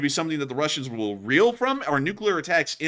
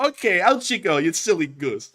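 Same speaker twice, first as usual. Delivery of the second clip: higher, louder jokey send-off; mock dismissal; 4 semitones higher, 4 dB louder than usual. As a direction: shoo him out in a hammed-up voice. Officers dismissing the soldier.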